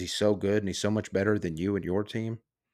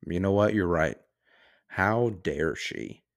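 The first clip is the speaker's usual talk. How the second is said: sarcastic mock outrage. Real, not acted.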